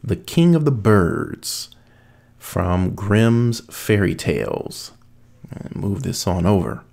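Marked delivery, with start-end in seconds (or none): 0.0-4.9 slow, deliberate title announcement; measured storybook title reading; story title read. A narrator's reading.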